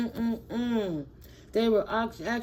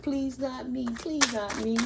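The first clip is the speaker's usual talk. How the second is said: mock crying baby; 5 semitones higher than usual. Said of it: "kicking and screaming like big old babies".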